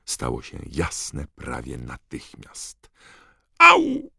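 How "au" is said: nagły, wysoki okrzyk bólu; krzyk bólu. A narrator's reading. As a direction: krzyknij krótko i głośno, jak po uderzeniu. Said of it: "krzyknął Harry". (nagły okrzyk bólu)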